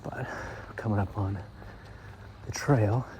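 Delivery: out of breath from the walk; breathless, catching air between words; shallow breathing. Real, not acted. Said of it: "I'm a little out of breath right now".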